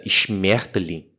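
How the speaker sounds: expressive, forceful German pronunciation; harsh German accent. Shown as a demonstration. Showing how expressive German is, forceful German accent. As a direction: spit out the German word like an insult. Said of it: "Muito, muito, muito".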